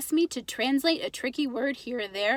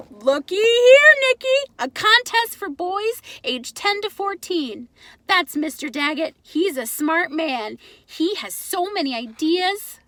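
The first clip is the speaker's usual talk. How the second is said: put-on much higher, much louder, accented delight; excited Pop; 6 semitones higher, 8 dB louder than usual. Father showing his son a contest, thrilled. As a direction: call the boy over, thrilled.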